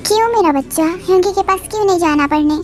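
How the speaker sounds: put-on high, tearful little boy saying no; crying child refusal. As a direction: whimper and refuse like a scared kid. Child crying, won't study.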